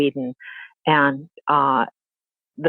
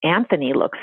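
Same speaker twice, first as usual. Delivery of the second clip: a lightly voiced, higher, sing-song taunt from a mean old mother-in-law; taunting grandmother; 5 semitones higher than usual. Mother-in-law taunting the father by phone, mock sweet gloating. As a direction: gloat sweetly with a laugh, just to needle. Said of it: "taunting messages on the phone".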